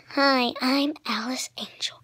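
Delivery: failed attempt at a girl voice; half-hearted, husky go at a girl character; Alice Angel. Vlogger with sore throat attempting a character, weak girl voice. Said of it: "I can't do the girl voice".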